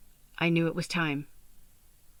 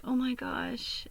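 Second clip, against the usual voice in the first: slow breathless whisper of wonder; hushed, slowed-down gasp of delight; awed whisper; 6 semitones higher, 3 dB quieter, much slower than usual. Retold or imitated. Whispering to herself, overwhelmed by the perfect stuffed elephant.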